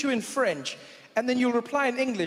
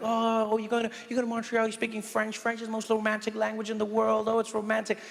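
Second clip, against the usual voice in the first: gushing friends. Retold or imitated. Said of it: "My friends back home are loving it".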